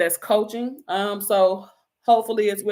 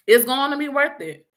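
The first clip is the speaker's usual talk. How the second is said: louder repeat; 4 semitones higher, 3 dB louder than usual. Real, not acted. Repeats promise, second louder.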